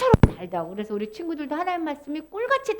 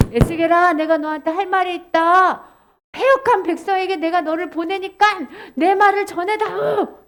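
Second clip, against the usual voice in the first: God commissioning Ezekiel; 2 semitones higher than usual. Acted. God sending Ezekiel to the rebellious people, solemn command. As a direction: charge the prophet firmly, a touch raised.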